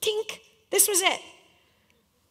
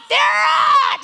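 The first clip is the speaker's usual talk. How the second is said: high, loud whiny protest; protesting yell; 14 semitones higher, 10 dB louder than usual. Retold or imitated. Player yells back at screaming coach, high and loud. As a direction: shout it back, exasperated. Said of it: "my response".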